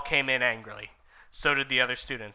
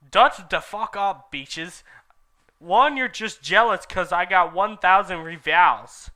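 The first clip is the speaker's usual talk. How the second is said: high, loud bratty rant; loud teen diva rant at the preps; snotty rant; 5 semitones higher, 7 dB louder than usual. Acted. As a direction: sass the haters. Author's note rant, voiced.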